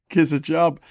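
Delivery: lightly voiced Scouse catchphrase; Yozza Hughes. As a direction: toss out the Scouse plea. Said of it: "says Yozza Hughes".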